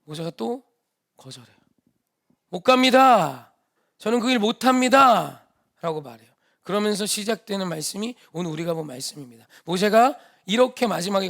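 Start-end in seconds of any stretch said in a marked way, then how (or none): 2.5-5.4 stubborn refusal. Acted. Moses flatly refuses.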